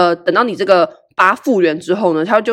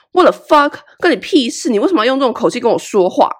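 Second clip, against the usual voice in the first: indignant; 4 semitones higher than usual. Retold or imitated. Retold angry inner reaction.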